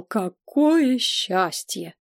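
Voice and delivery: lingering whispered-happy "Какое счастье"; overjoyed relief. A narrator's reading. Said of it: "сказал посол".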